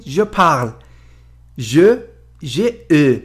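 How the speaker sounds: je parle with a short rounded French e in je. Shown as a demonstration. Teacher reading French conjugation aloud for students. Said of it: "ببینید این ا هست".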